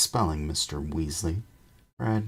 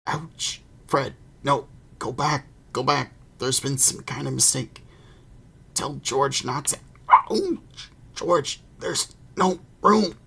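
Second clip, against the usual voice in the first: high, loud, strained yelling from far inside a wall; trapped voice in the chimney; 10 semitones higher, 7 dB louder than usual. A narrator's reading. Boy shouting from inside the blocked fireplace, high and loud. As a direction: shout in a panic, jammed in a tight space. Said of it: "Voices could be heard from inside".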